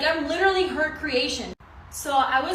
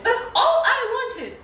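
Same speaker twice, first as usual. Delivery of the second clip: laughing; 12 semitones higher, 6 dB louder, slower than usual. Real, not acted. Repeats it, laughing harder.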